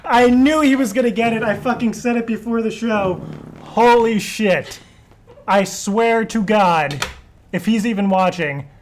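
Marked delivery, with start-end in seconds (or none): 3.6-7.0 stunned. Real, not acted. Still reeling after the loss.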